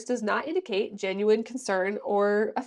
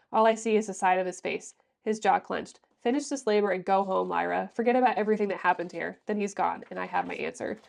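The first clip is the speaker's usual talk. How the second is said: book excerpt reading. Acted. Reviewer reading a passage aloud, calm steady narration. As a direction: read it like the novel's narration.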